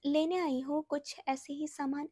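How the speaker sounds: a first, milder take of the faint voice; soft weak voice. Retold or imitated. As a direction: speak as if too tired to talk. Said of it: "ऐसे करके literally".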